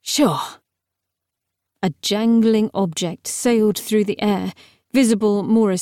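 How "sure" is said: understated relief; almost relieved. A narrator's reading. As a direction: let a touch of relief into it. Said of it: "He sounded almost relieved".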